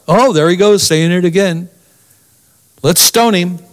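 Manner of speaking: mock exasperation. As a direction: roll your eyes at him, lightly.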